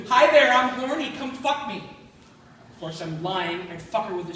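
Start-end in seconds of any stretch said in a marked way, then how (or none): 0.1-1.8 put-on loud, higher Fargo accent; hammed-up Midwestern accent, pitched up. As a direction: do a come-on in an exaggerated Fargo accent. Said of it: "if she talked like that".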